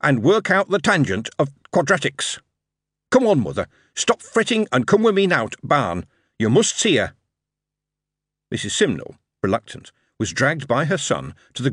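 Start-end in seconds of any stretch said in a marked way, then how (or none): 3.1-7.1 lightly voiced lad urging his mother along; a hint of a keen boy tugging his mum to the barn; young Yorkshire lad, eager. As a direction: son coaxing a reluctant mother to come see. Dick coaxing his mother.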